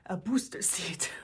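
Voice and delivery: breathy whispered joke; sheepish whisper; whispered aside. Real, not acted. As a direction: drop to a whisper for the punchline. Joking about needing booster seat.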